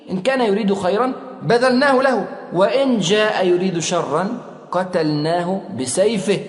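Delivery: steady then slowing to a stern close; firmly, slowing the threat at the end; firm resolve. Retold or imitated. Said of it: "قال حمزة في صلابة". (بحزم وبطء في آخر الجملة)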